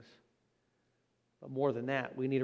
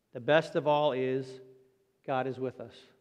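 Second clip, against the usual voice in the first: a touch louder and slow, a dying man crying out; mild retold cry; 4 dB louder, slower than usual. Preacher voicing dying Wesley crying out, mildly loud and slow. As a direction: call it out slowly with the last strength. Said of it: "he cried out".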